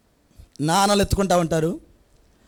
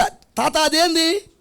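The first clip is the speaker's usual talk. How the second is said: put-on child asking; 7 semitones higher, much slower than usual. Small child asking grandpa.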